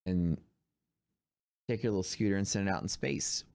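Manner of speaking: breathy secret aside; whispering. Acted. Playful aside about rocket scooter.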